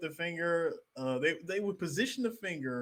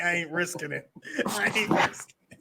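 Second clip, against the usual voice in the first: rising, laughing no-way; laughing refusal; 2 semitones higher, 4 dB louder than usual. Retold or imitated. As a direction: laugh while refusing, louder second time.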